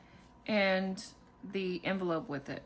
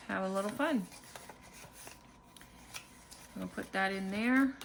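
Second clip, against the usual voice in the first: ordinary delivery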